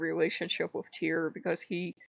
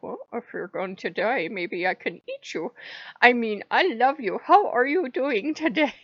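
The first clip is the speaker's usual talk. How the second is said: wolf voice; 4 semitones higher, 3 dB louder than usual. Retold or imitated. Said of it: "he talks like that with me".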